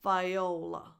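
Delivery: "Viola" with weight on the beginning; "Viola", strong start and reduced ending; early stress. Shown as a demonstration. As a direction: stress the first syllables of "Viola", light la. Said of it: "the stress is at the beginning of the name".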